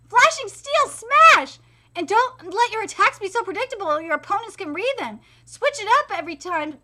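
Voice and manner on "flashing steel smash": slow, higher battle call; attack shout. Acted. Fighter shouts his technique. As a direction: draw the move out.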